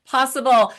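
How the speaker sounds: measured host reading a guest bio; introduction read. Real, not acted. Host introducing nonprofit expert to audience, introduction read. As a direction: present the guest's credentials to listeners. Reads guest's biography aloud.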